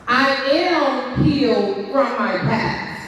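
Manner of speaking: slow, deliberate declaration. Shown as a demonstration. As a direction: declare each word slowly. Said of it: "And you're gonna repeat after me".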